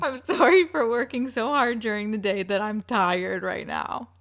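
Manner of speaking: mock sincere apology. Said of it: "Apologize without laughing".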